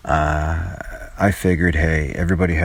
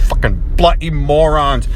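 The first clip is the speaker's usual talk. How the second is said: mock British insult; 10 semitones higher, 3 dB louder than usual. Real, not acted. Ranting at drivers.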